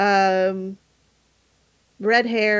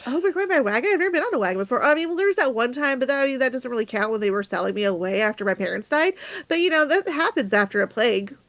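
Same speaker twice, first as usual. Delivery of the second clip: put-on excited girl voice; 3 semitones higher than usual. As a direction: babble it out with wide-eyed delight. Orphan girl chatters excitedly.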